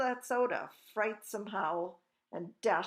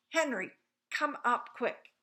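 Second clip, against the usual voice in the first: raised, urgent call upstairs; yelling; 5 semitones higher, 5 dB louder than usual. A narrator's reading. Mother calls her husband Henry to come, yelling. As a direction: call loudly and higher for help. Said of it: "she yells".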